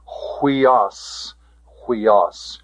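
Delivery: "huios" begun with an H sound; careful model of "huios", rough breathing as H; pronunciation demo. Shown as a demonstration. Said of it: "rough breathing mark being the H sound".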